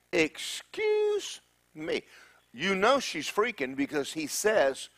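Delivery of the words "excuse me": very high and slow, put-on young girl; startled Mary. Mary startled by the angel, high slow voice. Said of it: "And she's like".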